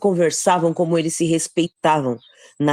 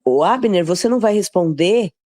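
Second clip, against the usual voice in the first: mild raised-pitch call to someone distant; mock calling out; 5 semitones higher than usual. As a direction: call out a challenge, without fully shouting. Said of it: "Davi gritou pro povo".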